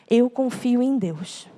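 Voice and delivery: very slow, effortful declaration of faith, retold; speaking with difficulty. Imitating weeping husband declaring trust in God, speaking with difficulty. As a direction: draw each word out as if hard to say. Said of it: "ele falou com muita dificuldade".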